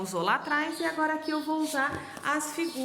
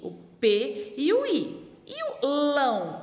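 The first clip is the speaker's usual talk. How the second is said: slow spelling; slower than usual. Shown as a demonstration. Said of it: "olha só".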